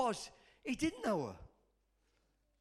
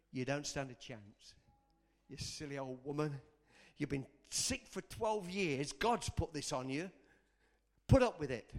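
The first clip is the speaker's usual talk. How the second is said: the devil; 5 semitones lower than usual. Acted. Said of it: "what do you think the devil".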